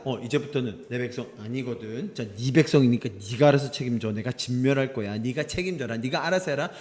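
wash your hands of them in a low voice; cold disowning. Acted. God mock-disowns the people. (낮고 작게, 남 일처럼 떠넘기듯)

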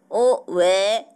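ordinary delivery

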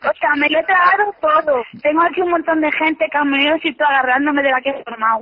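shaky relieved laughter; relieved laughing. Real, not acted. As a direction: laugh off the scare. Relieved after prank reveal.

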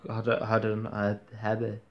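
sleepy, stumbling over words; tired and nodding off. Real, not acted. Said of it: "ich bin müde, sorry".

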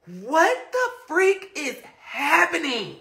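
slow, giggling what-is-this; laughing disbelief. Retold or imitated. Telling viewers about her thumb, laughing in disbelief. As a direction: laugh through the confusion. Retelling panic over stuck thumb.

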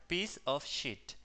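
"Piece of sheet" slow, with a long "ee" in "sheet"; long vowel. Shown as a demonstration. Teacher showing students the right way to say it. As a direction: stretch "sheet" out carefully. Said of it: "se dice de la siguiente manera".

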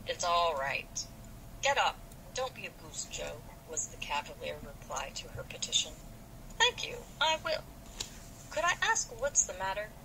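lively read-aloud of a novel with light voices; story narration. Acted.

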